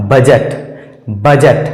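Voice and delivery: बजट said as "bujut", d silent; correct pronunciation. Shown as a demonstration. Teacher to class on silent d, clear बजट. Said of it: "इसका सही उच्चारण हो जाएगा".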